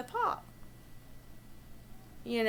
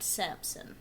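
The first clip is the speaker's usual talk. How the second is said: usual speaking voice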